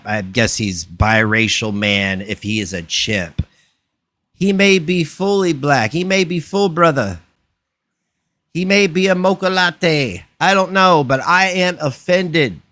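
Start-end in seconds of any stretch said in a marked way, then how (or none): 4.3-12.6 higher-pitched mock outrage; grandstanding on someone else's behalf; mock offended. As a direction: play up being offended. Hammed-up offence on others' behalf.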